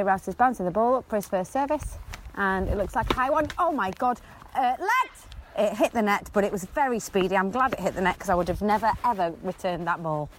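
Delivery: amateur tennis commentary, a little breathless; frantic mock sports commentary. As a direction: commentate on the point as it happens. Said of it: "you commentate this point".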